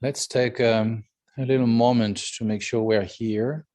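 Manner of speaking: unhurried meditation guidance with long pauses; guided meditation. Real, not acted. Teacher settling the group into the present moment, calm meditation guidance.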